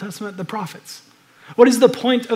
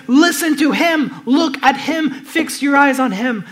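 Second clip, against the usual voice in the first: higher, louder and slow, commanding; slow, raised proclamation; proclaiming; 5 semitones higher, 6 dB louder, slower than usual. Real, not acted. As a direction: ring it out as a command. Preacher proclaiming the Father's command.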